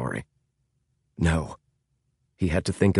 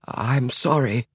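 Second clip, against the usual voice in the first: higher, slow, flustered apology; stammering apology; 5 semitones higher, slower than usual. A narrator's reading. James apologizing to the man gripping him, stammering. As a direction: apologize haltingly, voice raised in pitch. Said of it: "stammered James".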